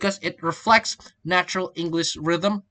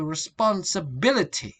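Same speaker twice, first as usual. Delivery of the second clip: "responsibility" with the peak on BIL; shifted stress. Shown as a demonstration. Teacher showing stress change, "responsibility" stressed on BIL. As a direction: move the weight to BIL in "responsibility". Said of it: "A change".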